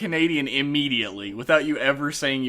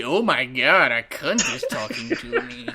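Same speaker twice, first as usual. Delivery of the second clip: imitated English accent. Actor meeting podcaster, exaggerated mock English accent. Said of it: "that's his accent".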